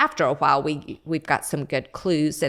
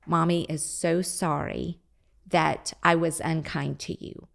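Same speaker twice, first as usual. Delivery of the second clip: softly voiced mother apologizing to a small child; soft, patient mom saying sorry to a toddler; gentle parent apology; 4 dB quieter than usual. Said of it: "So to say".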